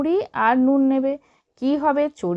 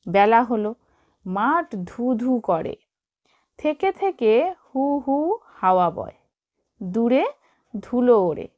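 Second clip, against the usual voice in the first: put-on reading to children. Teacher reads text to class.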